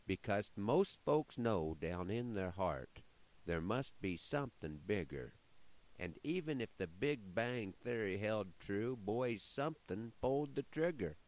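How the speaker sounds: measured, rhythmic poem reading; poem recitation. Acted. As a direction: recite it like a cowboy poet.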